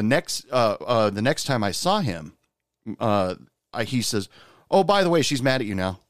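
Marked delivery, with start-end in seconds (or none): 4.7-6.0 offhand retold coworker, opening higher then settling; nonchalant. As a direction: toss it off casually, as an aside. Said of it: "So very nonchalantly".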